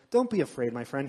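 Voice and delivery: gently reassuring pat-on-the-back delivery, acted; mock comforting. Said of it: "he's not being comforting".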